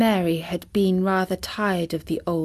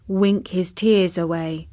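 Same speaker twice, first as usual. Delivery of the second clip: ordinary delivery, nothing marked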